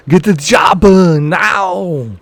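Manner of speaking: a light Arnold delivery; Arnold line. Retold or imitated. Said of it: "the easiest line to use is".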